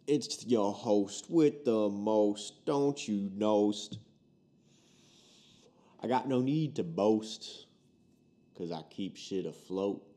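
slow, drawn-out rhyming introduction; rhymed host intro. Acted. Podcast host introducing himself in rhyme, slow showman delivery. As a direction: stretch the rhymes out like a hype host.

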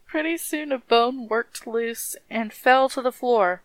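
lilting storybook reading; rhythmic story narration. A narrator's reading. Reading how the dead man danced, rhythmic story narration. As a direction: let the list of rattling parts roll along.

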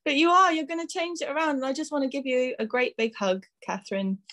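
getting emotional. Real, not acted. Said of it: "Oh, I'm getting emotional".

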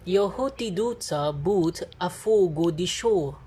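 relaxed attempt at a British accent; chill British accent. Shown as a demonstration. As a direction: say it casually in a put-on British accent. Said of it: "but with a British accent".

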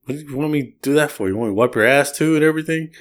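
lightly voiced homeless guy, irritated; annoyed retort. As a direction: snap back in mock offense. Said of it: "He goes".

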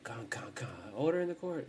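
a hint of a stern courtroom judge calling for order; mock TV judge banging for order, lightly voiced. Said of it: "that kind of shit straight out of fucking S U V".

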